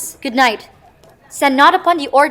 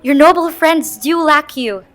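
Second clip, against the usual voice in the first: louder, pressing reminder; urgent prompt; 7 dB louder than usual. Acted. Wife urging her husband back to the guests, loud and pressing. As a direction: snap him back to his guests.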